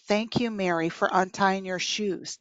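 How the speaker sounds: understated sarcastic thanks from a teacher; mock-thank a child with mild sarcasm; a touch of sarcasm, evenly delivered. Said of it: "That's sarcasm".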